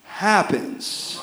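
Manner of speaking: unvoiced ominous whisper. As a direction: let it drop to a breath. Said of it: "he said to Israel".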